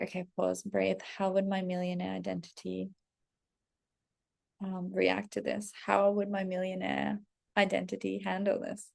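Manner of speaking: softly composed inner voice; understated, measured self-coaching; calm self-talk. Acted. Voices calming self-talk amid gloom.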